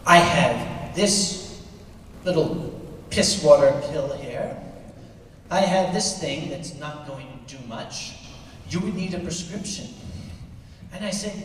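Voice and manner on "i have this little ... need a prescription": pharmacist lady voiced. Pharmacist lady's reply.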